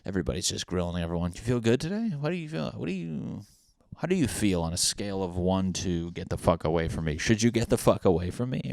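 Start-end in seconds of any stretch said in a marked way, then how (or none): 1.3-8.7 mocking nosy interrogator. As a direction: pester like a nosy coworker. Mocking people grilling about health.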